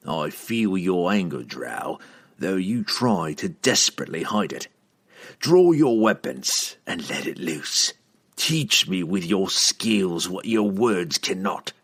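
deliberate villain, slowing as he goes; goading assassin. Acted. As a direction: goad your rival into drawing, unhurried. Narrator voices the assassin.

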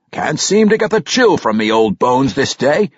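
folksy dwarf grumble; old dwarf king. Acted.

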